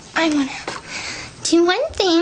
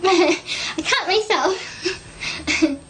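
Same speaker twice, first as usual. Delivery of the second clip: teary laugh; 2 semitones higher, much slower than usual. Real, not acted. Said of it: "I'm gonna get all emotional".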